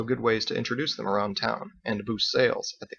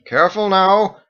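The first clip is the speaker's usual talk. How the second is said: loud warning; 9 semitones higher, 9 dB louder than usual. A narrator's reading. Fergus warns.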